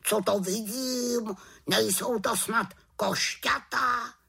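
high, amazed raven questions; wondering bird voice; exclaiming. Acted. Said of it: "zvolal Abraxas".

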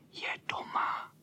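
hushed, breathless whisper. A narrator's reading. Boys at the wall asking in a slow whisper. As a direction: whisper it slowly so the cat won't hear. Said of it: "šeptali ti dole".

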